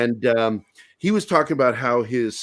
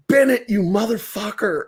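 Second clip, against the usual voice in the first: high-pitched mock outrage; imitated gleeful shock; retold astonished outburst; 10 semitones higher than usual. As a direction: cry out the prankster's name in disbelief. Retold outburst at friend's prank.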